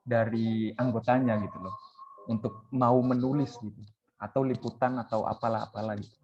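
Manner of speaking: talking while smoking a cigarette; words around a cigarette, between drags; cigarette in mouth. Real, not acted. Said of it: "aku sorry sambil ngerokok".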